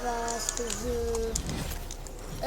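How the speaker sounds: broken stream dropout; audio cutout. Real, not acted. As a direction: voice cuts out and drags. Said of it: "Désolé pour la petite coupure".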